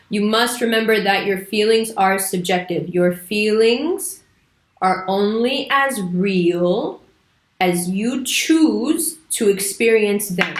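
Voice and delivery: very slow, each phrase spaced out; slow, deliberate repeat. Shown as a demonstration. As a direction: drag it out so it sinks in. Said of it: "Irritating, right?".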